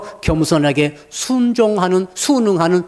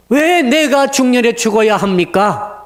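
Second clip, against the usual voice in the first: slow, raised, pleading cry of why; anguished lament; 6 semitones higher than usual. Acted. King asking God why he must die, anguished plea. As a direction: plead with God, drawn out and higher. Hezekiah's anguished question voiced.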